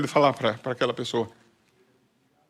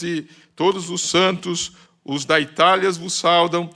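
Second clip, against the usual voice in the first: slow, raised, ringing Bible reading; slow, solemn sermon reading voice; solemn scripture reading; 4 semitones higher, 4 dB louder, slower than usual. Acted. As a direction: read it out like a blessing over the church. Pastor reads Hebrews aloud.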